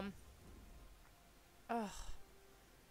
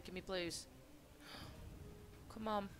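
whispered; 3 semitones lower, 13 dB quieter than usual. Real, not acted. Urging the slot machine.

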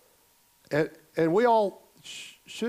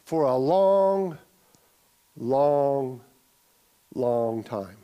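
drawn-out longs; 3 semitones lower, much slower than usual. Shown as a demonstration. Preacher stretching the word long for the congregation, drawn out. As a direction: stretch every long to make the endurance felt. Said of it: "willing to endure and suffer for a long".

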